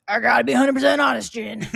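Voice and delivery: a hint of a blunt friend giving his verdict; Will impression. Friend imitating Will's blunt restaurant verdict, lightly voiced. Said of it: "your Will impression has come such a long way".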